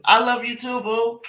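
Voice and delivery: high, affectionate reply. Real, not acted. Replying to a viewer's love, affectionate.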